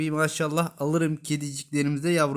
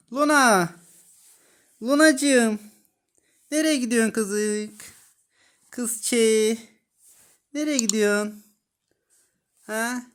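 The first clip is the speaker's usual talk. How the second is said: calling the kitten; 5 semitones higher, slower than usual. Acted. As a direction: call after a wandering kitten. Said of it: "geliyorum bağırıyorum". (kaçan yavru kediye yüksek sesle, sevgiyle seslenme)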